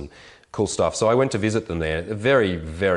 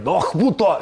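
high, loud guttural Klingon-style growl; drunk Klingon-like miners; 9 semitones higher, 4 dB louder than usual. Retold or imitated. Mocking the drunk miners in the bar, high guttural growl. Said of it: "they sound like Klingons".

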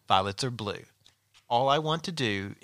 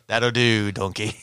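Shrek; 2 semitones lower, 6 dB louder, slower than usual. Retold or imitated. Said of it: "I'm gonna sound like Shrek".

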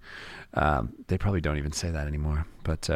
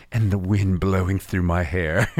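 laughing while talking. Real, not acted. Laughing while describing the cruise daydream.

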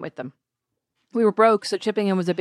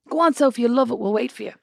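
encouraging dad; 5 semitones higher than usual. Retold or imitated. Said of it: "Dad was like".

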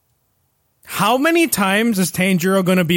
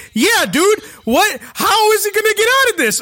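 much higher and fast, voice cracking up; frantic excitement; 12 semitones higher, 3 dB louder than usual. Retold or imitated. Watching the demon break Tanjiro's fingers, panicked and fast. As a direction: blurt it out in a panicked rush.

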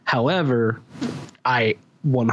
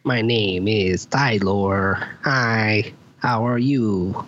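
robot voice; slower than usual. Pretend. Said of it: "I can't do that robot voice on demand".

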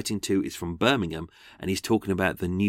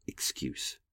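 whispered; 9 semitones lower, 15 dB quieter than usual. Real, not acted. Mocking Nilsen's excuse.

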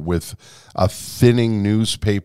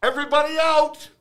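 imitation of a newsroom yell, pitched way up; retold yell. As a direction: call it out like a director clearing the room. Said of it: "the news director yelling".

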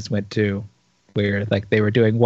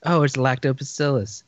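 Madison impression; 2 semitones higher than usual. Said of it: "How do you say".

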